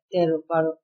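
তেরো, বারো each ending in a closed o; final o. Shown as a demonstration. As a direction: round off both last vowels to "ro". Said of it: "এভাবে বলেছি". (শেষে ও উচ্চারণ করে "তেরো, বারো")

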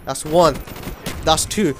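normal talking voice

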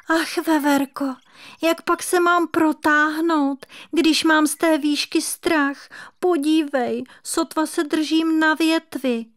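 high, lamenting little kitten voice; a scared kitten clinging to a branch; wailing kitten. A narrator's reading. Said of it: "hořekoval nešťastný kocourek". (naříkající kocourek, vysoký hlásek)

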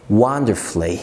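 wonderfully said as "wonder-flee"; wonderfully with the u silent; correct pronunciation. Shown as a demonstration. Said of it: "ما تنطقش اليو". (wonderfully من غير الـ u)

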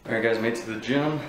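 breathless after a hard set; out of breath. Real, not acted. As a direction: talk while out of breath. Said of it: "that's why I'm out of breath".

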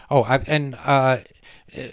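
usual speaking voice

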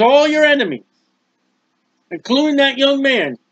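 pointed, lightly sarcastic with "that" stressed; hint at the dead son with a dry edge; a little sarcasm. Shown as a demonstration. Cushi answering the king, mild sarcasm on "that". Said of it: "a little sarcasm there".

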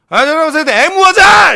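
very loud, high hammed-up bellow; mock commander's rallying cry, last word stretched; roll-call shout. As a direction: yell it across the parade ground. Parodies morning roll-call shout.

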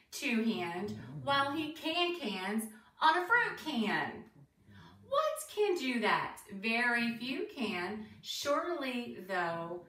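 lilting, deliberate rhyme reading; reading to children. Acted. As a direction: read a bouncy rhyme to young listeners, questions lifted at the end. Reads picture book to children.

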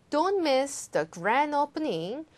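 slow, stressed ad reading. Shown as a demonstration. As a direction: read it like a radio ad. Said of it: "광고처럼 읽어주시면".

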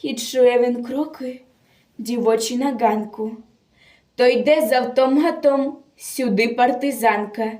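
measured, theatrical verse delivery; dramatic poem recitation. Acted. Reciter tells of a captured partisan girl, dramatic declamation. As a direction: declaim a solemn war poem with feeling.

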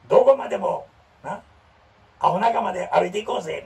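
mock heroic declaration; youth drama hero. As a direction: recite it like a cheesy coming-of-age lead. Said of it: "なんか青春ドラマみたいやろ".

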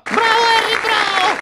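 a high, lightly voiced cheer; squeaky mock cheer; high mock praise. Hagrid praising Harry.

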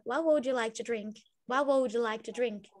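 pronúncia americana, tudo junto; What would ligado, americano; American accent. Shown as a demonstration. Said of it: "fica no jeito americano". (sotaque americano)

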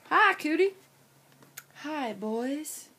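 lightly voiced little lady; girly voice. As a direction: greet them daintily. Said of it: "Why are you talking like that?".

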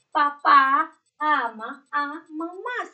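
slow reading aloud. Shown as a demonstration. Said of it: "hay varias palabras acá".

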